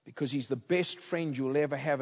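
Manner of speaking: low, soft, halting appeal; hushed, humble begging in retelling; broken, shaky plea. Retold or imitated. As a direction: plead quietly, as if close to breaking. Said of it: "in a broken, shaky voice".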